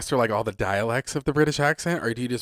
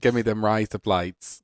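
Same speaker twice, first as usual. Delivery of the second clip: Australian accent. Shown as a demonstration. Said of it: "Now say".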